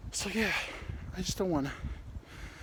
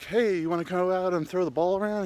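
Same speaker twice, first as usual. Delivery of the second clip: friend calling out; 5 semitones higher than usual. Retold or imitated. Friend inviting him to throw the ball, calling out. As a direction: call over to a buddy, pitched up.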